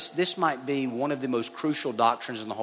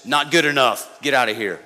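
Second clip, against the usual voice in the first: mock rejection; 6 dB louder than usual. Mock harsh Jesus rejecting father.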